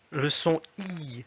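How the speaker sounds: "I" held long as a Russian vowel; Russian Ы sound. Shown as a demonstration. Teacher showing learners the Russian sound, "I" drawn out. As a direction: draw out the sound "I". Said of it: "à peu près la même prononciation".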